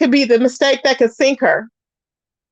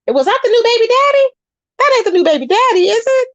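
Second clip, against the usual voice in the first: shocked disbelief; 9 semitones higher, faster than usual. Retold or imitated. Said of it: "I'm like".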